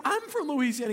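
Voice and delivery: mildly astonished, pitch lifted; amazed. Retold or imitated. Young man on the phone at a coincidence, mildly amazed.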